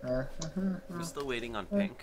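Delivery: high, slow, drawn-out sing-song. Acted. Impatient waiting remark.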